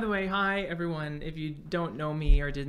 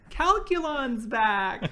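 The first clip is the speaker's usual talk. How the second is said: high, loud, slow robot proclamation; Calculon; 9 semitones higher, 8 dB louder, much slower than usual. Acted. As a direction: boom it out like a showy robot. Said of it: "Even, like, Calculon".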